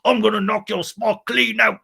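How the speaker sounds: hammed-up bar threat; mock threat.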